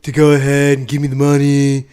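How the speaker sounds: weird, loud impression of a boastful politician; Donald Trump. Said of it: "in a weird Trump voice".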